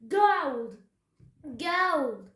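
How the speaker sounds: loud, high whoops building to a yell; greedy cry. A narrator's reading. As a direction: cry out, crazed for treasure. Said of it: "he cried".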